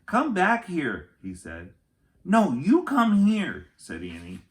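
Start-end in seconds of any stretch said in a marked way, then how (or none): 0.0-1.1 slow, loud, high call into a tunnel. Acted. Jack calls into tunnel. 2.2-3.7 slow, much louder and higher call; distant call. Acted. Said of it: "Her voice sounded far away".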